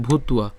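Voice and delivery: "ভূতুয়া" with the v sounded as ua; careful pronunciation. Shown as a demonstration. Teacher explains the v sound, careful "ভূতুয়া". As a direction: say "ভূতুয়া" as bhut-ua. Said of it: "বয়ের উচ্চারণটা উয়া".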